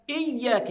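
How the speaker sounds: "إياك" as iyyaaka with a firm glottal start; clear initial hamza. Shown as a demonstration. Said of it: "أجيب الهمزة أولًا فأقول إي".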